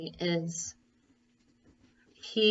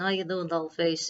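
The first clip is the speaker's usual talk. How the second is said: put-on Chicago gangster accent. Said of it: "Fred kinda has that accent".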